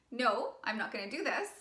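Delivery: even, settled refusal; firm and loving. Shown as a demonstration. Coach modelling a boundary set in conviction, firm. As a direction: say no with no wiggle room. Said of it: "you say it firmly and with love".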